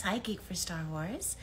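breathy whispered greeting; soft whisper. Real, not acted. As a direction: whisper the hello like ASMR. Greeting a fan in ASMR stream.

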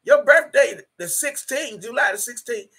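high, sassy mock of the caller's voice. Mimicking the woman who called her, sneering. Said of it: "this woman had the nerve to say".

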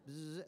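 soft buzzing noise; imitated vibration buzz. Device shakes after the second prompt, imitated buzz. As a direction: imitate a handpiece vibrating softly. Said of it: "the thing kinda goes".

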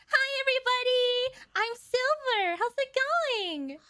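a hint of Silver's lightness; Silver's light voice. Imitating Silver for the voice actress, a light voice. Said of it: "light kind of voice".

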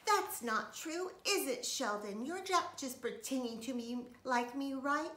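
high, loud anxious pleading; high anxious little girl; worried plea. A narrator's reading. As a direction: beg him to say it isn't so. Lucille worried, asking Sheldon.

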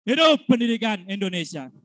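rousing chant building to a shout; rally the crowd, then shout it out; fiery revolutionary speech. Acted. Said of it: "Jawab dengan lantang". (pidato perjuangan yang berapi-api)

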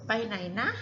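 ไปไหนนะ with a gentle trailing นะ; ไปไหนนะ gently; softened with นะ. Shown as a demonstration. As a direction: soften the question with นะ. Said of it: "soften like this".

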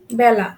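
বেলা with e opened to ae as in "cat"; open ae vowel. Shown as a demonstration. Teacher shows the changed vowel, বেলা said "bæla". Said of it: "এটা এর মতো উচ্চারিত হয়েছে".

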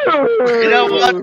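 drawn-out camp voice. Acted. Slow drawn-out high voice.

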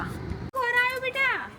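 soft, high, drawn-out cooing question. Real, not acted. Parent asking a toddler who has come, high soft baby talk.

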